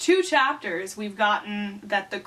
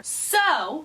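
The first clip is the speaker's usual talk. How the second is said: mimicked verbal tic; 5 semitones higher than usual. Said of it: "starts every sentence with either".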